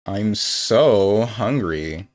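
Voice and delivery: put-on slow, drawn-out valley girl whine; lightly voiced valley girl, stretched out. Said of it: "say, like, a valley girl?".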